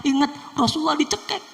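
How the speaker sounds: high and fast, swelling into a loud shout on Rasulullah; building preacher's shout. Acted. Preaching the Prophet's suffering.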